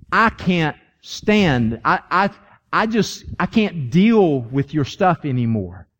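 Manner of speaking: slow, halting exasperation as God; weary-of-it rebuke with weighty pauses; exasperated. Acted. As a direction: drag out the key words, fed up. God fed up, acted.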